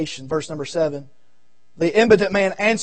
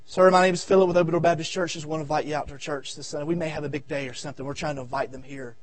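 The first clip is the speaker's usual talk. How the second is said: door-knocking invitation; 4 semitones lower, 3 dB quieter, faster than usual. Retold or imitated. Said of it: "I will knock on doors".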